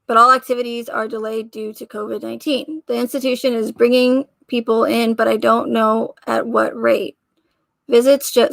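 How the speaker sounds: stiff, monotone letter reading; robot voice. Real, not acted. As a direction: read it flat like a robot. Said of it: "I'm reading it like a robot".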